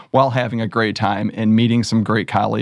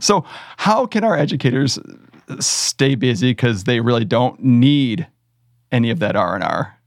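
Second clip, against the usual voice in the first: mock-serious pep talk with a laugh creeping in; tongue-in-cheek sarcasm, lightly played; sarcastic. Real, not acted. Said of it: "your sarcasm might not come through".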